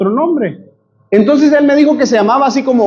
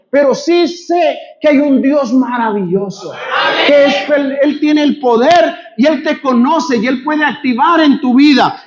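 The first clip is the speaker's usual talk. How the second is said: proclaiming shout; 3 semitones higher than usual. Acted. Preacher proclaiming God's power.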